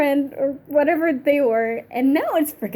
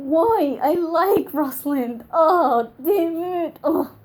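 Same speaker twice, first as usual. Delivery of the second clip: distraught; 5 semitones higher, 4 dB louder, slower than usual. Real, not acted. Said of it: "I'm so distraught right now".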